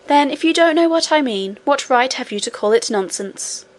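lightly voiced princess, slightly offended; a hint of an affronted young princess; cartoon princess, a little offended. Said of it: "a little offended".

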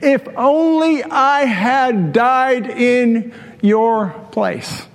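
a touch of grieving father, drawn out slow; mild mock wailing. Preacher retelling David mourning his son, mild wail. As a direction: stretch the lament slowly, fading on place. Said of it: "and he's wailing".

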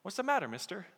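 a hint of a young boy; little boy. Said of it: "a little boy comes up to him, a young, young little boy".

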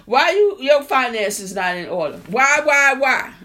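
imitating churchgoers who taunt you; mocking critics. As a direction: needle them like a smug critic. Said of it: "Ain't that what people saying?".

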